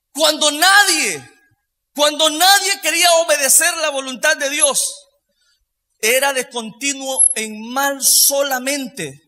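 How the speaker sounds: ringing sermon voice; emphatic preaching. Real, not acted. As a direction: preach it forcefully to the congregation. Preacher at full force.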